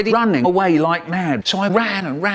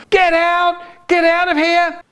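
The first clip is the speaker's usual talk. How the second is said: much higher, loud bellow; strict teacher yelling; 4 dB louder than usual. Retold or imitated. Strict teacher screams at pupils to leave, loud high yell. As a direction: throw the whole class out at full volume. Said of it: "She used to stand out the front going".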